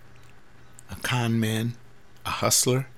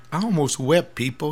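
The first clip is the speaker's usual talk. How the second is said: near tears; 5 semitones higher, 5 dB louder than usual. Real, not acted. Moved retelling kid's words.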